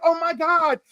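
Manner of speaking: high, flustered imitating himself; mock bi panic. Retelling his own bi panic at the table, high and giddy. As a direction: act out a giddy crisis. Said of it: "And I was like".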